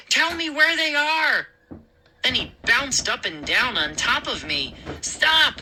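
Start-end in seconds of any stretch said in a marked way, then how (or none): 0.1-1.5 high-pitched, forceful bullying order; insistent demand. Acted. Moose pinning the boy down, demanding answers. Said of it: "Moose insisted". 5.0-5.6 high, urgent gasp of protest; gasped cry. Acted. Boy bounced on by a bully, gasping urgently. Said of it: "I gasped".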